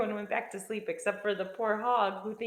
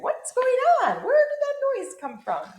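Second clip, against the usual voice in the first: high, loud puzzled questions; wondering; 13 semitones higher, 9 dB louder than usual. A narrator's reading. Animals wondering about the noise, high alarmed questioning. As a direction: ask as startled barn animals would. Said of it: "Everyone's wondering".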